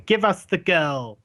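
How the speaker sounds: slow, lightly voiced villager; villager mob demand. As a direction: make a measured demand as an angry mob's spokesman. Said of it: "villagers kind of stop and look at you and go".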